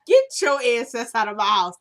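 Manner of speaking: loud furious order to leave; angry shout. Retold or imitated. Husband yelling at the parole officer to leave. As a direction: throw him out of the house, yelling.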